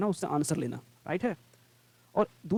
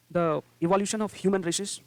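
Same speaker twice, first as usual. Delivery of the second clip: each word stretched out slowly for the class; slow dictation; much slower than usual. Shown as a demonstration. Teacher slowly dictating a phrase to students. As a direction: read it out as if the class is writing it down.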